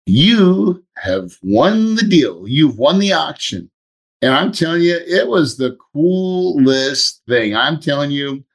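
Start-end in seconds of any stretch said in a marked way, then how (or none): 0.1-3.7 high, slow announcement; a lightly voiced system announcement; announcer voice. Announcing the auction win.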